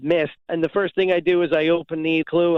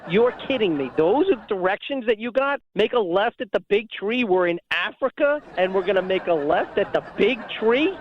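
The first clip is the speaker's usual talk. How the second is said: incredulous retelling; 4 semitones higher than usual. Retold or imitated. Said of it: "it just hit me".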